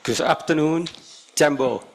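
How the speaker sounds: English with a Thai accent; formal speech, Thai accented English. Real, not acted. Thai delegate giving formal speech.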